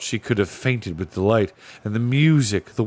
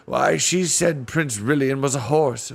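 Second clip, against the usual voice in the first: put-on old bear voice; 5 semitones higher than usual. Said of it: "said an old bear".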